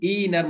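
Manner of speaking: long ee opening "ইনার"; pronounced like ina. Shown as a demonstration. Teacher repeating the same pronunciation, "ইনার" with long ee. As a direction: say "ইনার" as ee-nar. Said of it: "মতো করে উচ্চারণ হবে".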